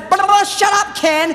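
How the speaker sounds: high, loud mock tantrum; hammed-up shrieking outburst; imitating furious future wife. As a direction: yell it like a nagging spouse. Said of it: "fast forward your life".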